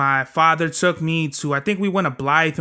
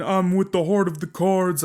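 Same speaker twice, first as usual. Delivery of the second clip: imitating a deeper voice; 3 semitones higher than usual. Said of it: "is like a deeper fucking".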